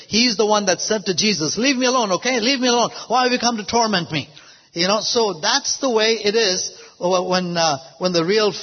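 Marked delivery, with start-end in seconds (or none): 1.6-4.3 higher, mildly fearful protest; imitated spirit of fear. Spirit of fear to Jesus, imitated fearful protest. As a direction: act a cornered spirit pleading to be left. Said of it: "He is the spirit of fear".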